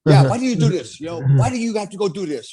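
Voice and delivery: put-on a German mom nagging her son, German accent; mom's German accent. Mother reminding son of wife and kids, German accent. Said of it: "my mom's got a German accent".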